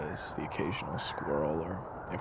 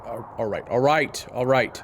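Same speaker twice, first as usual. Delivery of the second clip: exasperated giving in; 4 semitones higher, 8 dB louder than usual. Acted. Gives in reluctantly.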